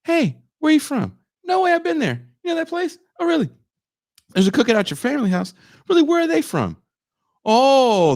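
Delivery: high, eager prying small talk; mock interviewing a new friend; chatty questioning demo. Shown as a demonstration. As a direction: lightly play a nosy friendly asker. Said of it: "I take an application".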